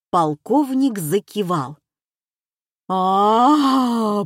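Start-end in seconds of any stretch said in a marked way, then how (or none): 2.9-4.2 long drawn-out "ah" of realisation. A narrator's reading. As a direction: stretch it out as it dawns on him. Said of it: "протянул Маневин". (протяжное, понимающее «а»)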